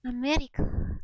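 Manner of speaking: America with a lightly tapped R; careful copy of Russian America; correct Russian way. Shown as a demonstration. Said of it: "The correct way".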